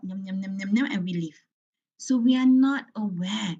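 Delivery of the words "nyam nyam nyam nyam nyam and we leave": robotic eating noises. Retold or imitated. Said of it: "Kita makan macam robot".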